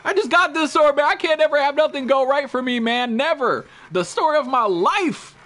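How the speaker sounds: self-pitying whine; whiny frustration. Real, not acted. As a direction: moan about the lost sword. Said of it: "I'm fucking mad".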